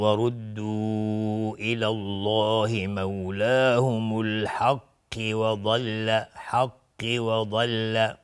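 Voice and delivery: slow recitation running الحق straight into وضل; continuous recitation. Shown as a demonstration. Teacher showing how to read on without pausing, linked Quran recitation. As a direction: join الحق to وضل without stopping, vowels drawn out. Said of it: "اگر بخوایم عبور بکنیم".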